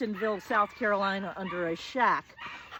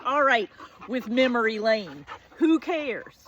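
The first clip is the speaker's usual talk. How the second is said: put-on dismissive teen; 5 dB louder than usual. Teen brushing off boyfriend's memories.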